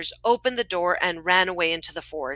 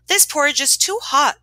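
higher-pitched storybook complaint; exclaiming; 6 semitones higher, 3 dB louder than usual. A narrator's reading. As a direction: exclaim it lightly as Goldilocks. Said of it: "she exclaimed".

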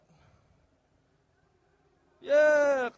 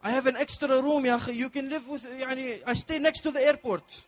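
put-on Gulf Arab accent; 4 semitones higher than usual. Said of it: "He said".

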